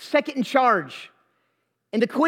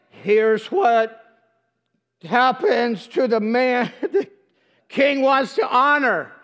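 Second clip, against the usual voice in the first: hammed-up reluctant announcement, dragged out; grudging proclamation; slower than usual. Haman must parade Mordecai through the streets, grudging proclamation. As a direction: force each phrase out slowly.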